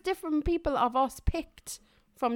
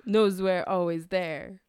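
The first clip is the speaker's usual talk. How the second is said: Christopher Walken; 5 semitones lower, slower than usual. Retold or imitated. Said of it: "Christopher Walken".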